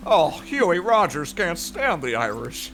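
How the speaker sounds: a light put-on cop voice; lightly voiced old cop, mock stern; Officer Rogers voice. Cohost echoing the character for friends, lightly put-on. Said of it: "Yeah, Officer Rogers".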